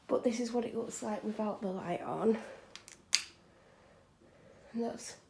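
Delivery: breathless after the stairs; panting a little between words; out of breath. Real, not acted. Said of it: "Sorry, I'm out of breath".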